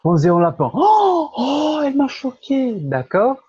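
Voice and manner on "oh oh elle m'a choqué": high oh then elle m'a choqué in Québécois; mock Québécois exclamation. Shown as a demonstration. Tutor hamming up the clip's Québécois line for the learner. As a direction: overdo the Québécois shock. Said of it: "tutor imitates video exclamation".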